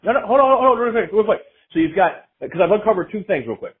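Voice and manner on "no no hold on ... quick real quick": higher, louder hold on; insistent interruption. Real, not acted. Host stopping his cohost from interrupting, louder and higher. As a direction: cut in firmly to keep the floor.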